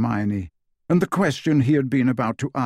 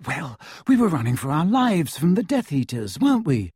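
defensive retort; 5 semitones higher than usual. Acted.

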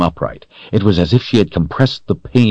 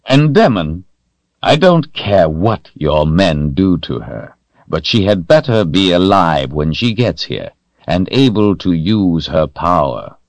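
harden the voice into a threat; harder voice; 2 semitones higher than usual. Acted. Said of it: "Rahl's voice became harder".

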